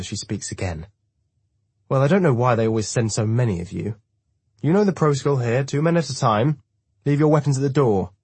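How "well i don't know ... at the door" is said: put-on high, loud old-lady orders; bossy old woman. A narrator's reading. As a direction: lay down the rules to visitors. Old woman lays down the rules.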